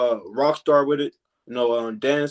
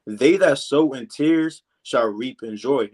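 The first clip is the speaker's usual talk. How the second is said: slow scripture reading; slower than usual. Shown as a demonstration. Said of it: "and it reads".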